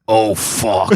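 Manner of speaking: low put-on voice of a friend; Brian Half. Friend sees ten cars outside, low impression. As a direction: sink down into the buddy's dismayed voice. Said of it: "He goes like this".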